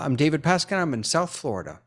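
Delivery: ordinary talk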